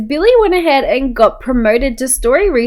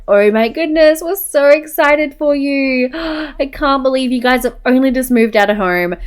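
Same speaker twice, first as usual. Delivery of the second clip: higher, gushing pretend reaction; excited congratulations; 5 semitones higher than usual. Parents reacting to a pregnancy, play-acted excitement. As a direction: gush over the news, voice lifted.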